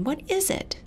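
high, puzzled what is it; sudden alarmed wonder; a child startled by a voice; startled question. Acted.

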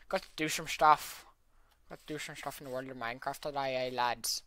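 hammed-up British accent calling to the lads. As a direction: play a cheeky British lad greeting his viewers. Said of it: "That's actually a pretty good accent".

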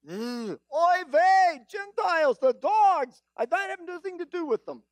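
put-on high-pitched Jewish accent, disgusted; hammed-up Jewish accent full of disdain. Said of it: "Not a bad Jewish accent".

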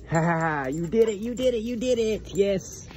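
high, delighted praise; excited praise. Real, not acted. Owner praising dog that finally obeyed, high excited cheer.

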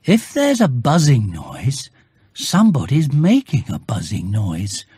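a hint of a puzzled bear reasoning it out; Pooh thinking aloud. Bear reasoning aloud to himself, lightly voiced puzzled bear.

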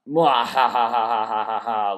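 loud hammed-up villain cackle; over-the-top evil laugh. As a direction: cackle like a cartoon bad guy. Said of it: "This moo ha ha ha ha ha ha part".

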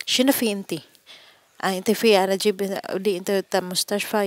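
retold angry boss demanding in Arabic. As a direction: scold her like an angry boss. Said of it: "nagalit ang lalaki".

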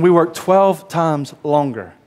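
slow, drawn-out grumbling protest; slow indignant complaint. Retold or imitated. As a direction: drag it out like an offended worker. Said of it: "They're thinking".

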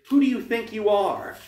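high, loud challenge; indignant demand. A narrator's reading. Boy confronts the girls holding him, demanding indignantly. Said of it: "I demanded".

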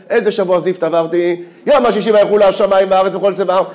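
half-laughing mock kiddush of the father; laughing retelling. Speaker retells the father's kiddush to the audience, laughing. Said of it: "הוא אומר".

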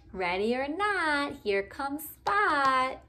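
sing-song hide-and-seek call; playful call. Acted. Hide-and-seek call in picture book.

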